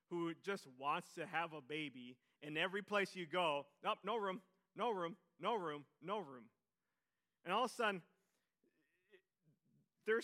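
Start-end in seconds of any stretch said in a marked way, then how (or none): 3.8-6.5 loud, brisk mock brush-off; dismissive refusal. Innkeepers loudly turning away Mary and Joseph, mock brush-off. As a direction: wave them off loudly, no room.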